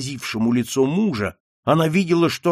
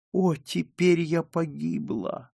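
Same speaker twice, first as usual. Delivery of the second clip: slow, high, faint lament; despairing; 5 semitones higher, 4 dB quieter than usual. A narrator's reading. Margarita seeing herself lost, despairing. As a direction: give up hope in a thin, drawn-out voice. Daughter despairs as father signs.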